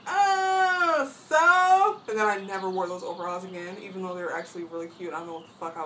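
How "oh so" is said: high, loud teary shot back; loud, high mock-hurt retort; defensive outburst. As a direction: snap back near tears. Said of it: "And I was like".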